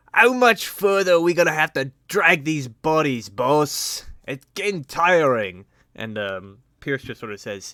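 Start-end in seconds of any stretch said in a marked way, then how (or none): 0.2-5.7 high, very loud shouted grumble. A pirate dragging bodies calls out to his boss, a shouting pirate.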